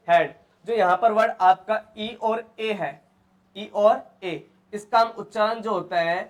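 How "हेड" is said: हेड with one ए vowel for EA. Shown as a demonstration. Teacher showing how EA is read, हेड with an ए sound. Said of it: "क्या पढ़ेंगे?".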